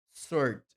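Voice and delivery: "sword" said as sord, no w, stressed and loud; silent w. Shown as a demonstration. Teacher stressing the correct "sword" to the class. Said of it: "Não tem o W na pronúncia".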